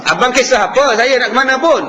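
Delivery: rude retort with rising bite on apa; rude wife. Retold or imitated. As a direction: snap back at the husband, challenging him. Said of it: "Ha, tu bunyi tu".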